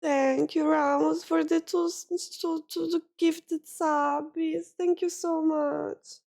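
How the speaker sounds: high, halting grateful thanks; touched, holding tears back; trying not to cry. Real, not acted. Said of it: "I don't want to cry".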